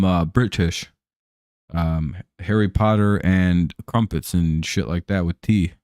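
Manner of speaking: lightly put-on British accent, mostly in his own voice. Streamer showing chat his promised British accent, barely-there mock British accent. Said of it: "here's my British accent".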